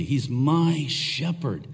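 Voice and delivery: "my" stressed, slow delivery; slow down and lean on "my". Shown as a demonstration. Pastor repeating the point, stress on "my". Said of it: "the emphasis is on my".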